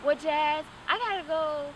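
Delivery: busy but still fussing over her; caring sister. Retold or imitated. Imitating her sister leaving but offering food, high voice. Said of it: "I can tell her".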